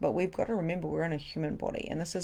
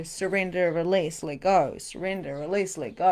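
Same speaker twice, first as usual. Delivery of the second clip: ordinary delivery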